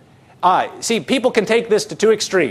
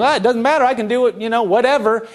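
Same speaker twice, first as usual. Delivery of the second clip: dismissive shrug; 4 semitones higher than usual. Acted. Voicing careless believers shrugging it off.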